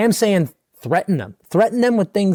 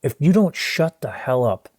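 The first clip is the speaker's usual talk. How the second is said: low stern finger-wagging threat; stern parent threat; 8 semitones lower than usual. Pretend. Stern parent threatening the screaming kid, low and stern. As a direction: growl it at the kid, lower. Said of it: "point the finger in the kid's face and go".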